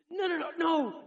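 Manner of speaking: high, loud acted protest; vehement denial. Peter denying Christ to another girl, vehement protest. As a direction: protest loudly as a cornered Peter.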